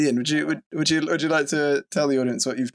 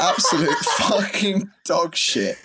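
slow, drawn-out disgusted verdict; a sneer stretched over every word; disdain; 4 semitones higher, slower than usual. Real, not acted. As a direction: spell out how awful it tastes. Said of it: "hear some sort of disdain in my voice".

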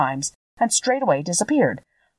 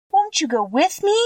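higher, a touch of pleading; 11 semitones higher than usual. Acted. Dorothy begging the witch to come along, mild plea. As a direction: plead mildly with the old woman. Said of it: "pleaded the girl".

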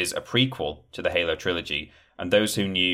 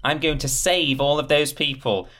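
much higher heroic boast; mock hero; 8 semitones higher than usual. Fan playing the Spartan saving everyone, mock heroic. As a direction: ham up the saviour line.

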